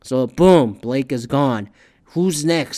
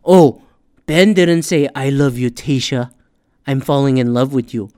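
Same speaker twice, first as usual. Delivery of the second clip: mocking viewer; 7 dB louder than usual. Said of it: "the layman fucking term of doing the show is like".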